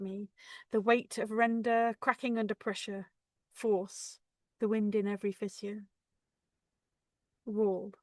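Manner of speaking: measured, solemn verse reading; deliberate poetry reading, surging at the storm; poem recitation. Acted. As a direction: recite in short weighted phrases, with long pauses.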